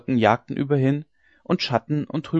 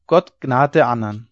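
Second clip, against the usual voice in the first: loud final cry; dying old woman crying out; desperate cry; 6 dB louder than usual. A narrator's reading. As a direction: shout "Gott gnad der Andern" as a dying plea. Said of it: "kreischend, wie ein Notschrei".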